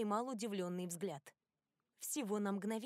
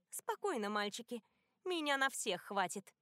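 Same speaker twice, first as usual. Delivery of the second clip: mocking bitchy tease; 2 semitones higher than usual. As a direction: purr it out with a mocking smirk. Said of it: "с насмешливо-стервозным прищуром". (насмешливо-стервозно)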